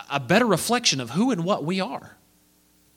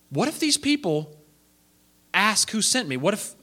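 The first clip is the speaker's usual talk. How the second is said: anxious Moses; 3 semitones higher than usual. Acted. Moses voicing his worry.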